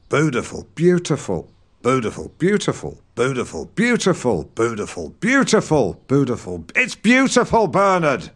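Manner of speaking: "beautiful" repeated, sometimes with the y glide, sometimes without; drilling beautiful. Shown as a demonstration. Drilling Bernard on "beautiful" with the y sound. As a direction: coach "beautiful" over and over. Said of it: "saying "beautiful".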